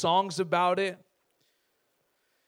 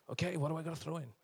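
eager king; 3 semitones lower, 11 dB quieter, much faster than usual. Retold or imitated. King responding to advisor.

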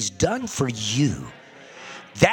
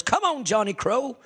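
crow voice; 10 semitones higher, 3 dB louder than usual. Retold or imitated. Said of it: "and say".

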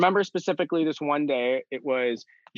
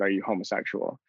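whispered; 4 semitones lower, 6 dB quieter than usual. Retold or imitated. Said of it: "and then whispered".

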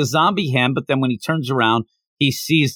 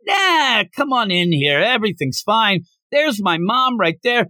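high-pitched, carefree brush-off; breezy dismissal; 6 semitones higher than usual. Acted. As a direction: shrug off the alarm in a higher voice. Voicing Hayato brushing off the alarm.

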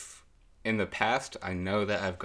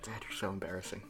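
quiet; 10 dB quieter, faster than usual. Pretend. Teen answering embarrassing dad.

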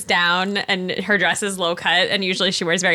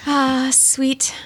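breathy condescending coo; patronising whisper; 4 semitones higher, much slower than usual. Acted. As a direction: whisper it like a fond older woman.

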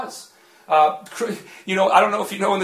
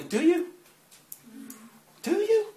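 gentle voice of God; 12 semitones higher than usual. Retold or imitated. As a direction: let God ask it gently, a little higher. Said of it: "felt the Spirit of God say gently".

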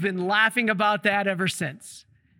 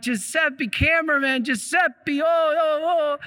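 rising exasperation; 5 semitones higher than usual. Retold or imitated. Priest about to scold cameraman.

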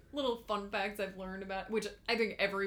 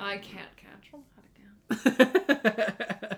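laughing; 6 dB louder, slower than usual. Real, not acted. Repeats schedule line laughing.

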